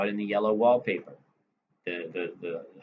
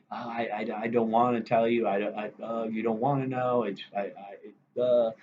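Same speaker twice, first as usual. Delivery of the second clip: feigned hesitation. Retold or imitated. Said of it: "these deliberate hesitations".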